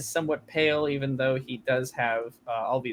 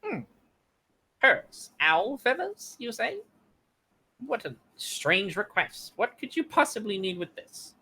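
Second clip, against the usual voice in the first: squeaky gnome voice; 8 semitones higher than usual. Acted. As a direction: pipe it up like a tiny gnome. Gnome shopkeeper voice.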